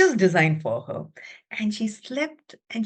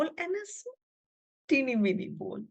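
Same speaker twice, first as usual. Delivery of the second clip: small voice; 4 semitones higher, 8 dB quieter than usual. A narrator's reading. Tiny bowl in a small voice.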